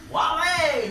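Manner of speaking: loud high call of a name; calling a friend at his door. Retold or imitated. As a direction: shout through the door.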